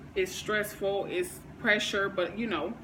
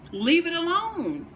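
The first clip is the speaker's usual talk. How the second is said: high, slow, forceful LEAVE it alone; emphatic command; 8 semitones higher, 4 dB louder than usual. Real, not acted. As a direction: slam the door on the idea, drawn out. Ranting about immature partners.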